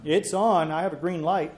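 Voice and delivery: shop class teacher. Real, not acted. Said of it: "we'll stop using the shop teacher voice".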